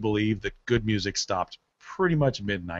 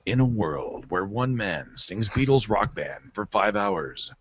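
movie trailer voice; slower than usual. Pretend. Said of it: "or the movie trailer guy".

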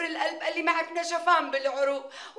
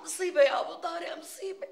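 hammed-up wailing; 4 semitones higher than usual. Hammed-up wailing over disaster.

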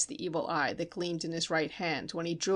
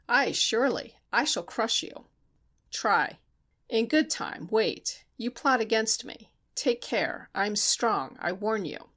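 a hint of a villain issuing threats, pitched up; menacing Steinmetz; 3 semitones higher than usual. Narrator voices Steinmetz threatening.

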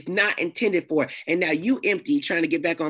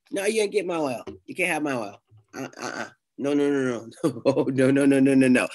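playful refusal; 6 semitones lower than usual. Retold or imitated. Refusing to give her oil.

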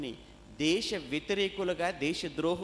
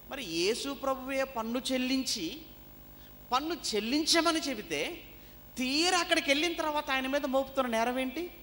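raised, high preaching voice; forceful preaching; 8 semitones higher, 3 dB louder than usual. Real, not acted. Preacher challenging the charge against Jesus, forceful.

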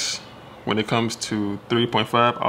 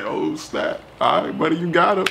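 mock surprise; 7 semitones higher, 3 dB louder than usual. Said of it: "I was like".

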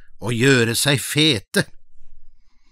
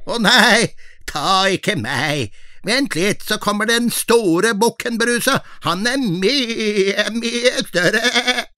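lightly voiced middle goat; 6 semitones higher than usual. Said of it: "Den var ikke like fin i målet".

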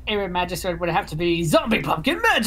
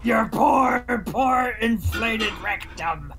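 shout; 2 semitones higher, slower than usual. Acted. Teasing a friend, yelling.

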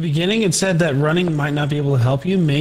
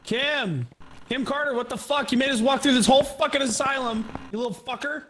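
mock scolding; 8 semitones higher than usual. Scolding the ghost.

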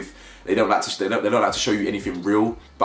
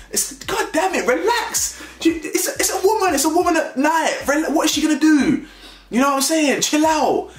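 exasperated. Real, not acted. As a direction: tell the cop to calm down, fed up. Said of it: "exasperated outburst at the cop".

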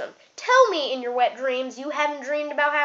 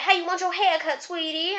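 lady barber; 4 semitones higher than usual. Retold or imitated. Voices the lady barber again.

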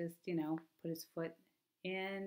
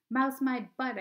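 indignant retort; 8 semitones higher, 7 dB louder than usual. A narrator's reading. Boy retorts after rat scare.

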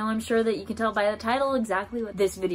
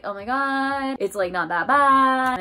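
higher-pitched, drawn-out retold reassurance; parents' reaction; 3 semitones higher, slower than usual. Parents seeing the injury in the story, drawn-out downplaying. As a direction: play the parents slowly downplaying it.

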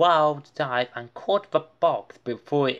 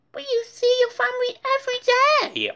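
very high, fast, louder scoff; dismissive; 5 dB louder, much faster than usual. A narrator's reading. Muffy dismissing Francine's family party. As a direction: brush it off quickly. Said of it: "Muffy said".

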